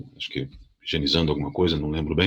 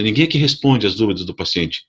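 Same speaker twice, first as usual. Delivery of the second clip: demanding complaint; 2 semitones higher than usual. Retold or imitated. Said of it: "Falei bem assim pra ela".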